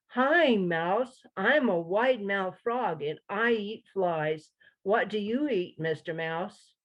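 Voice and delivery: a hint of a cheerful frog announcing himself; eager frog. Frog character greets mouse.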